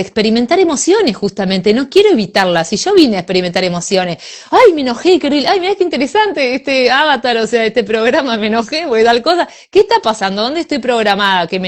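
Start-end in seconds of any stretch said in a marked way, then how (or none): 4.5-7.4 mock upset. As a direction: ham up getting annoyed. Acting out own anger. (imitando un enojo, más agudo y fuerte)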